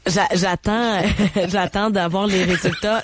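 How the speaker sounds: hoarse voice from a cold; rough, scratchy throat; smoker's rasp. Real, not acted. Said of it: "ma voix de fumeuse".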